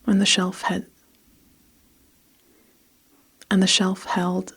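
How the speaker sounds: measured, evenly phrased storytelling; story narration. A narrator's reading. Narrator recording a story for listeners, measured storytelling. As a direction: read it steadily with pauses between phrases. Reads a story between retakes.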